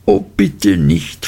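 put-on mild pleading girl. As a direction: gently beg her not to. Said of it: "flehte Dora".

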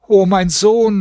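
hoher, klagender Ruf, gedehnt; jammernder Aufschrei. A narrator's reading. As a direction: wie eine Mutter, die ihren Sohn verloren hat, aufschreien. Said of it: "schrie und jammerte". (hoher Klageruf)

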